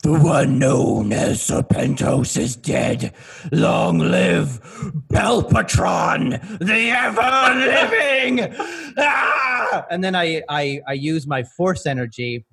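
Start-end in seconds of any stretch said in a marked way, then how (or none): 0.0-8.6 slow, grand villain decree, rising higher at the end; the villain proclaiming himself over the dead foe, slow and grand; villain proclamation. Acted. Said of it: "and I go". 9.0-9.8 triumphant shout. Acted. Villain's triumphant cry.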